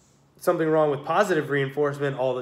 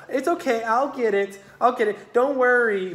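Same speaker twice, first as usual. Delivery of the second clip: much higher, soothing mock reassurance; mock pushover parent; 8 semitones higher, 4 dB louder than usual. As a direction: play the parent caving in.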